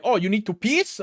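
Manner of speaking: lightly voiced baffled European instructor; confused ski instructor. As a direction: imitate someone who has misheard, voice lifting. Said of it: "talking to a instructor".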